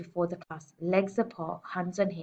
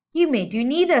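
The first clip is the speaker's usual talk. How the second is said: loud, higher snap; snapped; 8 semitones higher, 10 dB louder than usual. A narrator's reading. Trunchbull snapping at Nigel's request. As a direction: cut him off sharply. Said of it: "snapped the Trunchbull".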